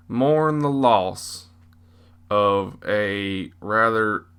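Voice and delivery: slow, drawn-out Southern preacher eulogy; southern preacher accent. Acted. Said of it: "act like a southern preacher man".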